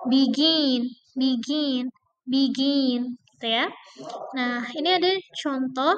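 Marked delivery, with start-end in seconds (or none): 0.1-3.2 Begin, GIN stressed. Shown as a demonstration. Teacher drilling verb stress on begin. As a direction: lean on GIN. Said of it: "stress on the second syllable".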